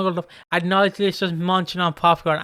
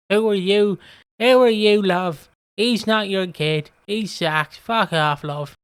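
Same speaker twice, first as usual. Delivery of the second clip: council estate woman; 2 semitones higher, slower than usual. Retold or imitated. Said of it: "trashy council estate woman".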